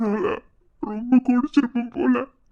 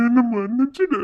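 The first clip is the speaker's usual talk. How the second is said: a teary half-laugh of apology; laughing through tears; 3 dB louder than usual. Acted. Husband laughing through tears as he asks forgiveness. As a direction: plead while laughing and crying.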